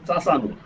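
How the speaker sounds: চাচানুর, with ch and n swapped from chanachur; child's swapped sounds. Shown as a demonstration. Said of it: "আমার ছোট ছেলে বলতো চাচানুর". (চানাচুরের ন আর চ উল্টে চাচানুর)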